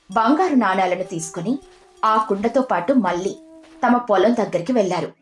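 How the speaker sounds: plain reading voice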